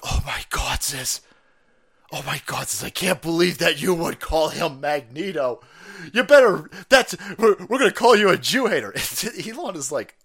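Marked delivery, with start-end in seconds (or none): 0.0-8.9 mock outrage. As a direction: build from aghast to an indignant threat. Acting out scolding critics.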